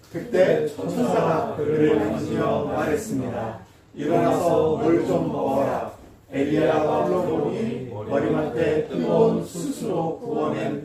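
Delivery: loud, slow, measured group reading; scripture read-aloud. Real, not acted. Preacher reading the angel passage with the congregation, loud slow recitation. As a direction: lead the congregation through the verse, steady and loud.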